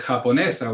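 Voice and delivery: Japonesa stressed on NE; ja-po-NE-sa, light final syllable; stress on penultimate syllable. Shown as a demonstration. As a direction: lean on the second-to-last syllable of Japonesa. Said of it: "comes on the second to the last syllable".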